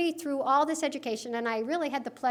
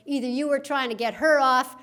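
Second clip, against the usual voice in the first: put-on Texas accent. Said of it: "I don't know why I go into this Texas accent".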